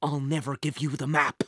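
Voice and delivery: mild acted scream of refusal; screamed defiance. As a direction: refuse the villain outright. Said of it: "she screamed".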